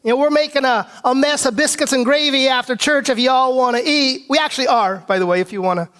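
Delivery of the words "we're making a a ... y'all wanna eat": hillbilly imitation of Southern speech; hee-haw Southern country accent; twangy Southern accent. Shown as a demonstration. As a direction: lay on a redneck Southern twang. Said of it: "this twangy little thing".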